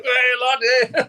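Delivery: hint of a Geordie mate's nudge; nudging mate.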